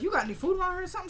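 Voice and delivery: very fast, high retold question; imitated woman. Woman asking her captive for food, fast high imitation. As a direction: rattle it off in a high put-on voice.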